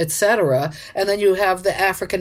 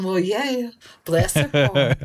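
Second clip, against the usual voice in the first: porch-sitting southerner; slower than usual. Retold or imitated. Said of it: "on a porch going".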